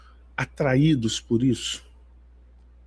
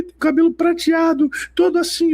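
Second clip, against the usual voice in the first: imitating the sister; 12 semitones higher than usual. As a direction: voice her awed description, high. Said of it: "a Alice gritava".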